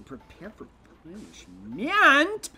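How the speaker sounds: villain voice. Acted. Reading villain dialogue.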